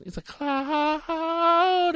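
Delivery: high, very slow Scottish drawl; Scottish accent. Retold or imitated. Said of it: "with his really thick Scottish accent".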